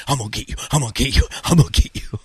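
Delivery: repeated threat, rising from low; menacing chaser. Retold or imitated. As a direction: imitate the relentless runner behind. Imitates runner chasing behind him.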